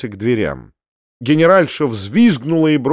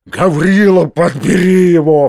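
louder, raised order; exclaiming; 4 semitones higher, 5 dB louder than usual. Acted. Uncle ordering Gavrila after throwing Foma, louder. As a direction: bark the order out. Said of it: "вскричал дядя".

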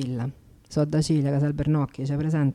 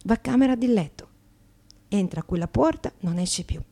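chatty Slovak immigrant in broken Italian, brightly pitched up; a cheeky Slovak accent, lively and a little higher; 6 semitones higher, 5 dB louder than usual. Acted. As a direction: play an Eastern European woman mangling Italian grammar with cheerful confidence. Actress plays Slovak immigrant.

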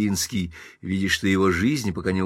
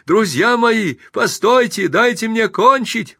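pleading shout; 13 semitones higher, 6 dB louder, slower than usual. Acted. Pinsky begs the mob.

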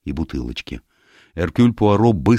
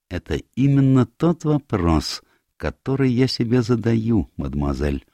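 high, deliberate, dropping on the address; lightly voiced Poirot; 7 semitones higher than usual. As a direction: ponder it as the detective.

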